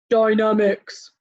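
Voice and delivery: Dynamics stretched out slowly. Shown as a demonstration. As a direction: drag out Dynamics. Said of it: "Can you say dynamics?".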